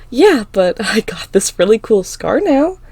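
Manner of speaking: loud cheerful laugh while speaking. A narrator's reading. Girl showing her mom the scar, laughing it off. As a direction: laugh off the injury lightly.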